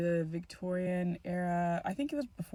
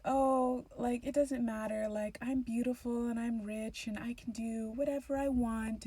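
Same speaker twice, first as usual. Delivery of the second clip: vain sister; 3 semitones higher than usual. Retold or imitated.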